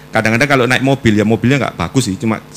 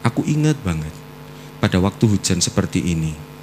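retold tearful prayer; 5 semitones lower, 6 dB quieter than usual. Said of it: "saya nangis".

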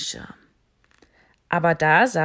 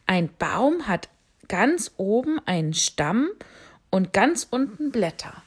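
bat voice; 3 semitones higher, 4 dB louder than usual. Acted. Bat answers the owl.

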